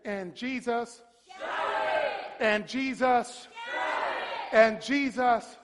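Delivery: slow, firm, deliberate prompt; like you mean it. Shown as a demonstration. Preacher leading the congregation's response, emphatic. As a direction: lead the crowd with conviction. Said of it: "Say it like you mean it".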